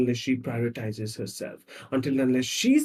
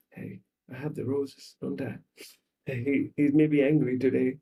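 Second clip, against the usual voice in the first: mock weeping, understated. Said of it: "and she's weeping".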